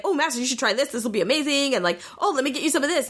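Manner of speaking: lightly acted eager flattery; eager to please. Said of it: "keep him super, super happy".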